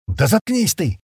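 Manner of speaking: sharp, high angry bark. A narrator's reading. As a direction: snap her silent. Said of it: "рявкнул Стэн".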